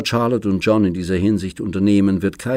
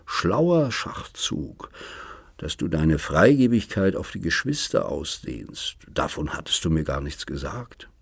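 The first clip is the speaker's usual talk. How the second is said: cynical devil. Acted. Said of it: "flüsterte er Schmidt ins Ohr".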